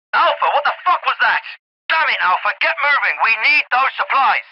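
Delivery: angry radio reprimand, pitch jumping up; urgent, irritated commander demanding action; exasperated rebuke. Acted. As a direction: chew out the squad over the radio. Commander berates Alpha by radio.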